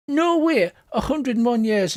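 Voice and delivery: high-pitched gossip's disbelief; acted astonishment, starting very high; incredulous listener. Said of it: "they're going".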